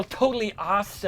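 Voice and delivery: high-pitched mock Californian Valley girl; hammed-up Valley girl voice; Valley girl accent. Shown as a demonstration. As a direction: do an exaggerated American Valley girl. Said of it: "or a Valley girl".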